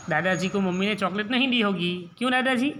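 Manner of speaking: put-on child's voice. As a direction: play a small boy asking his grandpa.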